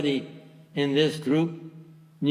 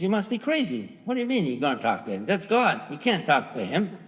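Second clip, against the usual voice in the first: higher-pitched, mildly acted disbelief; mock-incredulous scolding; incredulous retort; 4 semitones higher than usual. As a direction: retell his incredulous refusal, pitch jumping up. Kapo's acted scornful refusal.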